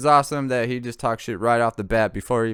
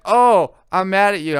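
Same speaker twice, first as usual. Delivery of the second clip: higher pouty complaint; mock pouty girl; 8 semitones higher, 7 dB louder than usual. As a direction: sulk like an annoyed friend. Voicing the annoyed friend.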